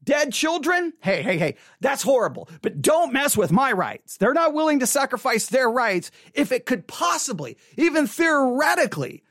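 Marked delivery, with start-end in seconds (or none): 0.0-4.2 mock shout. Mocking rights crowd.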